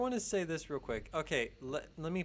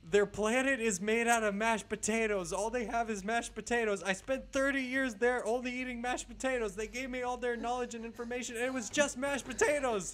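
mock tearful yell, higher and louder; yelling in tears; 8 semitones higher, 3 dB louder than usual. Returning astronaut yelling to the crowd, hammed-up tearful shout. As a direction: shout it out like a broken man back from space. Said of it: "he just yells out".

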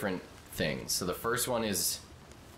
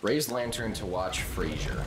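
mock prompt read. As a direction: announce it like a TV guide. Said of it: "I love Frasier".

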